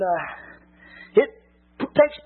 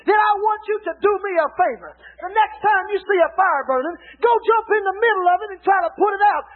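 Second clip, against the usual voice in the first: preaching at full force; 3 semitones higher than usual. Acted. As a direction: drive it home to the pews. Preacher exhorting congregation loudly.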